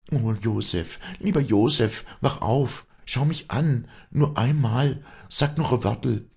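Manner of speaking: high-pitched, loud, desperate pleading; wailing lament. A narrator's reading. Afra begging injured Josef to wake, wailing lament. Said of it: "wehklagte Afra".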